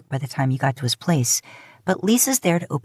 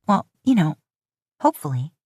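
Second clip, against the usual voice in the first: teasing. Acted. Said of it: "You tease him with a wink".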